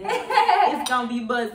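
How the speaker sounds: laughing through the words; slow, laughing hype. Real, not acted. Laughing while hyping the snack.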